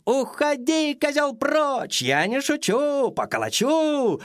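high, squeaky hare shout; little hare squealing threats at the goat. A narrator's reading. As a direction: squeal it like a tiny brave hare. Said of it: "верещит".

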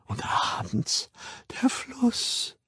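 soft, half-voiced rapt whisper. A narrator's reading. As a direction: whisper it as a dreamy memory. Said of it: "flüsterte sie". (verzücktes Flüstern)

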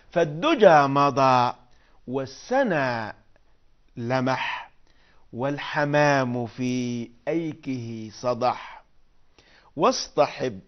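slow hushed recital with pauses between phrases; poem recital. Acted. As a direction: savour each short line of verse slowly. Teacher recites the whole poem.

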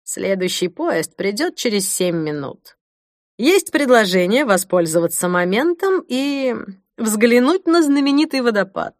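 lightly voiced suave gentleman; a hint of a charming Englishman; gallant Englishman. A narrator's reading. Narrator voicing Clive.

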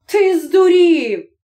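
wife exasperated with husband. Acted. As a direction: tell him he's mad. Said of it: "озвалась жінка".

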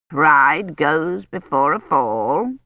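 a hint of a stern old woman, slow; slow, lightly voiced scolding grandmother. A narrator's reading. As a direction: grandmother lecturing the crying girl.

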